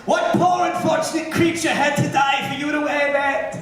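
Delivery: lightly mock the woman's sneer; snooty stranger. Retelling a rude woman at the door, mildly mocking. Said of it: "some bitch stopped me on the way in here tonight".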